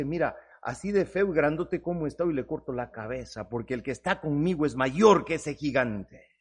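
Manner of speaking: quiet, low, sure of victory; calm low confidence. Acted. David calmly answering the frightened people. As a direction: say it softly, fearless.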